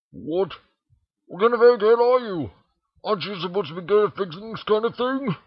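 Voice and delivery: high, loud, scoffing pony voice; exasperated Rainbow Dash. A narrator's reading. Rainbow Dash scoffing at Twilight, high and loud exasperation. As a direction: throw it at her like she's useless.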